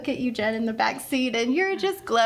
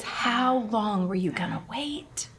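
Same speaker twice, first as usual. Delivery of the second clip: whispery, emphatic retold reproach; hushed intense plea. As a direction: act out an urgent question under the breath. Repeats the driver's retold words.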